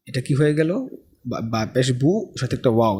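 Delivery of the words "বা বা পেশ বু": বা, বা পেশ বু read slowly, the final বু stretched into a long oo; drawn-out বু, vowel held long for the student; slow Arabic reading drill; slow teacher demo. Shown as a demonstration. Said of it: "বু টান দেওয়া হইল".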